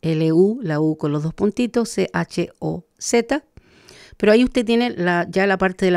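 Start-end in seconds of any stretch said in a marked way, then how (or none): 0.0-3.4 letters spelled out slowly; slow spelling. Shown as a demonstration. Teacher spelling a word for learners, slow letters. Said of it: "Se escribe".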